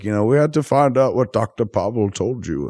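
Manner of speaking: lightly voiced posh old Englishman; a hint of the fussy British gent; posh old British man. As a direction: Bane explaining, a touch of the posh British voice. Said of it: "an old, posh, fuddy-duddy British man".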